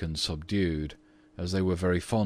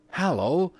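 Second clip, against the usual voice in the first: much higher, louder rising call; sudden exclamation; 11 semitones higher, 5 dB louder than usual. A narrator's reading. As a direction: call out in surprise like a boy. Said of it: "suddenly exclaimed one of the twins".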